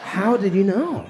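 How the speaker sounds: slow, laughing accusation; mock suspicious. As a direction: drag it out, half laughing, suspicious. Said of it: "I'm like".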